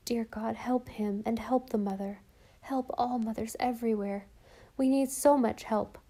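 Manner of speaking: hushed, breathless prayer for all mothers; whispered prayer. Acted. Mother praying at the window at night, whispered.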